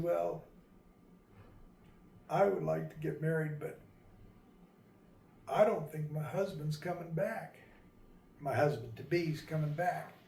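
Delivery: understated, softly voiced sorrow; halting and subdued, with long pauses; a touch of sadness, haltingly spoken; quiet sadness. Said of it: "'cause she was so sad".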